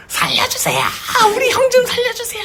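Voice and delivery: high, wailing plea for help; imitating crying child. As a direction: play a frightened little brother bawling for help. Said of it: "하면서 막 울었다는 거예요".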